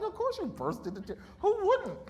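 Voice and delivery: high, laughing self-mockery; mock-scolding herself through laughter. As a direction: laugh it out, going way up.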